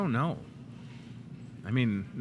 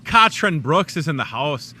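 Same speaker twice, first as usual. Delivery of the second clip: playful Irish-accented announcement; "Catherine" as "KAHT-rin" in an Irish accent; 6 dB louder than usual. Shown as a demonstration. Host announcing the florist in a put-on Irish accent. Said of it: "your name with an Irish accent".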